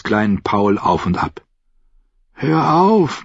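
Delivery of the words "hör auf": higher, weak plea to be left alone; lightly voiced frightened boy, murmured; weak murmuring Sam. A narrator's reading. Sam murmurs to Paul carrying him, weak and higher. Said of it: "murmelte er".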